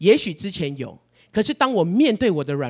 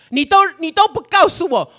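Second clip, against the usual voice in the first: much higher, louder reproach, 都 stressed; shrill accusation; 12 semitones higher, 8 dB louder than usual. Retold or imitated. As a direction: hurl 你都不告诉我 at God, higher still. Retells complaint, pitch peaks. (向神高声抱怨，重读“都”)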